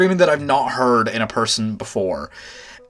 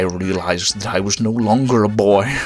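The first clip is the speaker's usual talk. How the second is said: mock solemn whisper; 3 semitones lower than usual. Mock-epic coming-of-age line.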